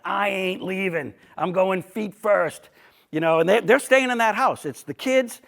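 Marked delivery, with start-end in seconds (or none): 0.0-2.7 slow, stubborn Charlestown holdout, lightly voiced; tough old guard. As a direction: draw it out, lightly imitating a tough local digging in. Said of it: "they are the tough".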